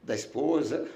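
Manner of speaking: real emotion, low and soft, long halting pauses; fighting back tears, voice dropping away; choked with emotion. Real, not acted. Pastor recalling dying thoughts of his family, choked up. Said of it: "até me emociona".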